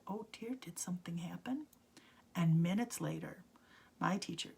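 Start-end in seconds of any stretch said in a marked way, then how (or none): 0.1-1.7 gentle concern. Retold or imitated. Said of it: "And she said".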